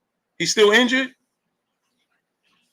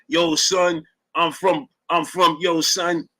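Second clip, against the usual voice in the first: lightly voiced Brooklyn dude, repeating himself; a hint of the stammering yo-son guy; mock over-talking New Yorker; 3 semitones lower, slower than usual. Mocking a New Yorker who can't say where he's from, lightly voiced stammering dude. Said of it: "talk like that".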